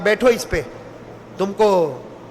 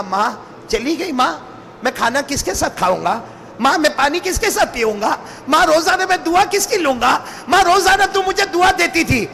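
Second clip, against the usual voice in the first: a son mourning his mother, lightly tearful; mild weeping lament; 3 semitones higher than usual. Acted. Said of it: "اتنا روئے، اتنا روتے روتے کہا". (ہلکا سا روتا ہوا نوحہ)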